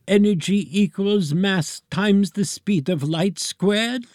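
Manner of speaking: put-on high, slow, solemn old professor; Einstein ghost voice. A narrator's reading. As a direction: lecture like a fading genius. Einstein continuing.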